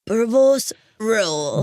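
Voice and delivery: slow, put-on South African attempt; drawn-out South African imitation; imitating South African accent. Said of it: "I'll try to imitate you".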